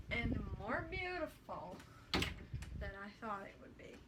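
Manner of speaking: mock-grand, lightly put-on; dramatic. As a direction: gush it theatrically. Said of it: "that was a little dramatic".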